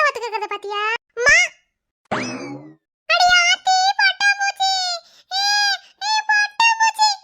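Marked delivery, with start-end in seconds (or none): 1.2-7.1 put-on high, loud childlike delight; excited squeal. Girl spots a butterfly and cries out, thrilled and loud.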